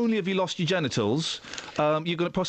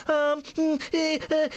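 mock crying; 9 semitones higher, slower than usual. Mocking a star who cried.

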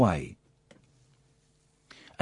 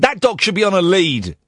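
mildly angry telling-off, slightly raised pitch; retold anger; 4 semitones higher than usual. Host retelling confronting the dog's owner, mildly angry. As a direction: retell an indignant demand, only a touch heated. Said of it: "I got angry with the owner".

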